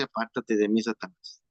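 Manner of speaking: a low, stern rebuke from the Lord; the Lord rebuking. Retold or imitated.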